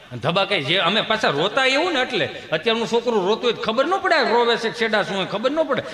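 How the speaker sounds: ordinary delivery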